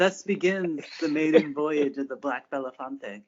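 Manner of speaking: slow, epic narrator voice; grand narration. A narrator's reading. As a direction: announce it like a legend.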